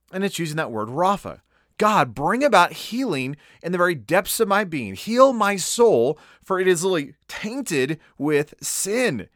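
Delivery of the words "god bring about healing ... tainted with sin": mildly impassioned plea, retold; crying out. Psalmist pleading with God for healing, mildly crying out. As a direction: lightly voice a plea, drawing out key words. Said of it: "is crying out".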